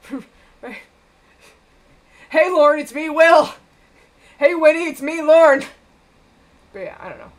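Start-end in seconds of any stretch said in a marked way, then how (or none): 2.3-5.6 loud, raised-pitch character greeting; mock hailing. Will and Winnie greet Lauren, loud mock hailing. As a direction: call out a hammed-up hello.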